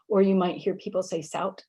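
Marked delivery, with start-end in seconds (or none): 1.2-1.6 sout with a released t instead of th; final T sound. Shown as a demonstration. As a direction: finish sout on an audible t. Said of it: "the T sound there".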